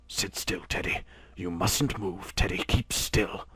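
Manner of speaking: soft, breathless whisper; frightened whisper. A narrator's reading. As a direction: whisper so the snake won't strike. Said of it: "all his father could do was to whisper".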